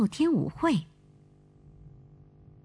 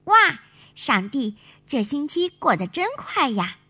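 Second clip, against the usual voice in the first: put-on little girl marvelling aloud; amazed exclamation; 6 semitones higher than usual. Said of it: "惊叹地说".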